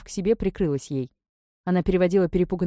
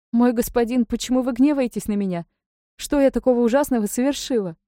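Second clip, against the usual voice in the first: higher, louder lament; desperate wailing; 6 semitones higher, 3 dB louder than usual. A narrator's reading. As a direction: plead with the lord in despair. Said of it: "отчаянно запричитала".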